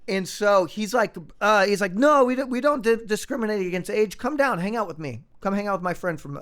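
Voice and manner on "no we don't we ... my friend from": higher-pitched, insistent retold invitation; mildly eager invitation. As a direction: imitate a new pal urging you along. Retells the Austrian's eager club invitation.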